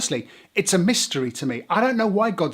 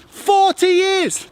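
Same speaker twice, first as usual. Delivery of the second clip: incredulous; 14 semitones higher, 6 dB louder, much slower than usual. Real, not acted. Incredulous at forty-year journey.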